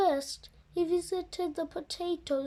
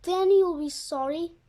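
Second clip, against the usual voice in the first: booming threat; 5 dB louder than usual. Acted. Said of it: "booms the farmer".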